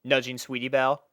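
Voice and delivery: plain reading voice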